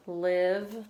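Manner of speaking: "live" with a short i; short middle vowel. Shown as a demonstration. Teacher sounding out a syllable, "live" with short i. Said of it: "vowel in the middle, short".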